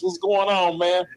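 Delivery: ordinary talk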